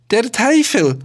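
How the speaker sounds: put-on aghast old men swearing; grumbled curse. A narrator's reading. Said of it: "grollten sie".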